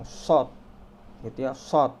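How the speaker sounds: "sod" with pouted lips, dark s; emphatic rounded "sod". Shown as a demonstration. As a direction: push lips forward on "sod". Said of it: "mulutnya monyong".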